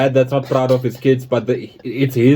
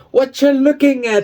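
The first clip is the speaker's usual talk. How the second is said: higher, challenging retort; mock confrontation; 11 semitones higher than usual. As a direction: throw it like a cheeky dare to a coworker. Colleague quoted, mock confrontational.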